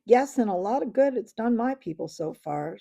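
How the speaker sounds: loud, bitter retort; snapping. Acted. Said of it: "snapped Knickerbock".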